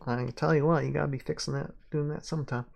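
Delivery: playful Mississippi twang; Southern accent. Shown as a demonstration. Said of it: "I can do the accent".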